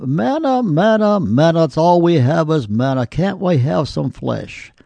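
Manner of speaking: mock Israelite whining. Preacher mocks the Israelites complaining about manna, whiny. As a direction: mimic grumbling Israelites sick of manna. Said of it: "The Israelites complained".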